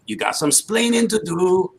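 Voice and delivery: high, loud imitated Hispanic accent; Ricky with Hispanic accent. Retelling the instant answer, loud mock Hispanic accent. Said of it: "with that Hispanic accent".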